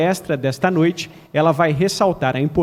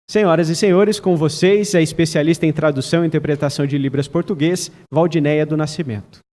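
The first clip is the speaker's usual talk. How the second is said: grand entrance announcement. Acted. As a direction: announce her like a star. Introducing the speaker on stage.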